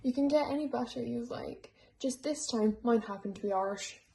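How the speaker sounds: lightly put-on, horrible Irish accent; mock Irish lilt, half-hearted; bad Irish accent. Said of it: "stop talking in my horrible Irish accent".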